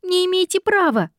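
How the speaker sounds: high squealed stop; squealing. A narrator's reading. Heroine protests.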